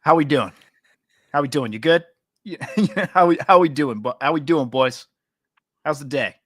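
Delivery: a loud, hammed-up suburban guy hello; suburban white guy. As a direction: boom it like a friendly suburban dude. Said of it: "the most suburban white guy you've ever heard".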